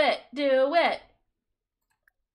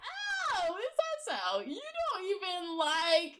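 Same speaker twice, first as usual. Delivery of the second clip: sassy mock voice; 3 semitones higher, 5 dB quieter, slower than usual. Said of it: "And she's like".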